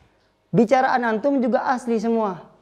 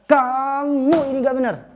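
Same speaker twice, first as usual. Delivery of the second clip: angry scolding; 6 semitones higher than usual. Shown as a demonstration. Teacher shows scolding an annoyed friend, angry. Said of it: "ketika marah ke suatu teman".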